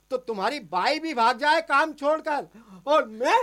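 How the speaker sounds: indignant protest building to a loud finish. Acted. Husband arguing with wife over breakfast, indignant.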